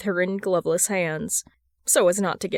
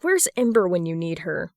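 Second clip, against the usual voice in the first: plain reading voice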